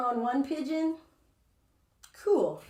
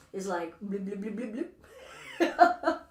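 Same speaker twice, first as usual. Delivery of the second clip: blurry vision bloops. Pretend. Teacher mocking her own blurry eyesight, playful bloops. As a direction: pop out "bloop" like bubbles, last one squeaky. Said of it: "my super bionic vision".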